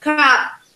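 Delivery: cup with a puff of air on the p; aspirated final p in "Cup.". Shown as a demonstration. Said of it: "en que aspiro el sonido".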